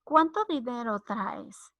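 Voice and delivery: "¿Cuánto dinero traes?" slowly, as a question; pregunta. Shown as a demonstration. ("¿Cuánto dinero traes?" como pregunta pausada)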